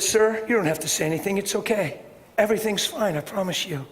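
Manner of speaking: soft, settling voice to a worried man; quiet, kind reassurance to the owner; gentle reassurance. Retold or imitated. Calming a shaken dog owner.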